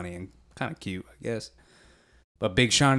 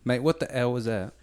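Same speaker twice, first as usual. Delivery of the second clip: attempted British accent. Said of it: "You didn't have a British scream at all".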